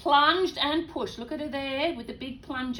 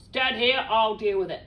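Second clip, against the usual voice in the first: gruff dad; 2 semitones lower, 6 dB louder than usual. Acted. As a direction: boom it like a tough dad. Dad voiced again.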